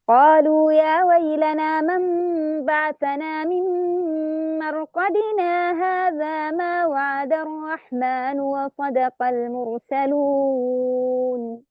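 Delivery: slow recitation, مرقدنا flowing into هذا; Shu'ba's reading; recited without sakt. Shown as a demonstration. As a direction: recite slowly, no stop after مرقدنا. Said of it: "بدون سكت".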